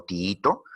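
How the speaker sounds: "tiito" as ti-í-to, double i; separated vowels. Shown as a demonstration. Teacher giving "tiito" as an example of hiatus, separated vowels. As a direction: lengthen the stressed i in "tiito". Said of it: "las vocales cerradas iguales se separan".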